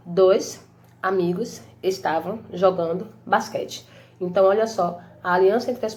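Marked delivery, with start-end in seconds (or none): 0.1-3.9 "Dois amigos estavam jogando basquete" spoken slowly, each word set apart. Shown as a demonstration. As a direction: count out every word slowly for the class. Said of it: "eu tenho uma, duas, três, quatro, cinco palavras". ("Dois amigos estavam jogando basquete" dito devagar, palavra por palavra)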